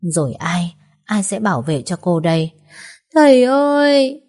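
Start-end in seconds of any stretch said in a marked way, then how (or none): 3.1-4.2 crying out. A narrator's reading. Girl cries out for dead father.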